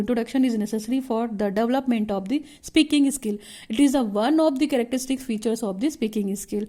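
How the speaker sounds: reading the textbook line out very slowly for notes; slow dictation reading. Shown as a demonstration. Teacher reads the definition to students, slow and deliberate. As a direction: dictate each word slowly so the class can write it down.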